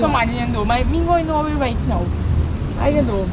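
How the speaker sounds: loud, heated demand for money; furious creditor shouting at debtor; angry shouting. Acted. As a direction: yell at him to pay up. Shouting argument over owed money.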